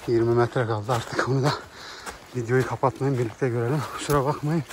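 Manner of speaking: breathless after the steep climb; panting between words; out of breath. Real, not acted. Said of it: "Nefes nefese kaldım".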